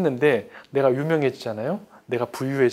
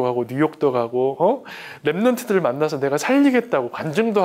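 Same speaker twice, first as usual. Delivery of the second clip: raised, pleading cry to God; desperate complaint to heaven; anguished prayer. Retold or imitated. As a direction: beg God for an answer, voice climbing. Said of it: "내 기도가 이런 거예요".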